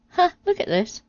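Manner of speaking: high gleeful ha; triumphant. Acted. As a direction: show off the find, pitched high. Eve triumphant with twig.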